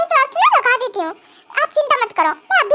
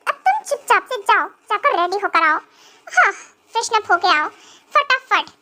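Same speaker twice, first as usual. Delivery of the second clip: grumpy husband; 5 semitones lower than usual. Acted. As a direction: lower stern husband voice. Husband figure held voice. (नाराज़ पति, हल्की नीची आवाज़)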